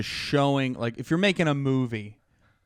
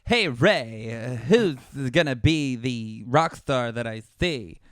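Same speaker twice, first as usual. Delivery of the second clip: alien voice; 4 dB louder, slower than usual. Acted.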